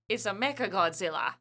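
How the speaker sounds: put-on light New Zealand accent on quote. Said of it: "your New Zealand accent".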